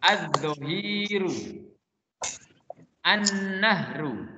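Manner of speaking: "Az-zuhiru" and "An-nahru" slow, the consonant doubled; tajwid reading. Shown as a demonstration. Teacher reads example words to pupils, slowly. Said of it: "alif lam syamsiah".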